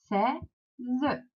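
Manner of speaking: "Seize" broken in two, sei... ze; split into syllables. Shown as a demonstration. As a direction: say "Seize" as two separate syllables, final e sounded. Teacher splits word into syllables.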